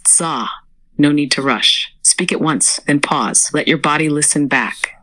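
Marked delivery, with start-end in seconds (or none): 0.1-0.5 "Tsa" short, with a precise ts. Shown as a demonstration. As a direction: make "Tsa" one brief, crisp syllable. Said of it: "Short and precise".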